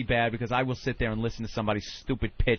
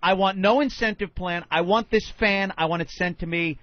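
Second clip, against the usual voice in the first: firm, louder, insistent demand; retold angry snap; 3 semitones higher, 4 dB louder than usual. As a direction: tell him flatly you want only the fan. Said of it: "and I just went".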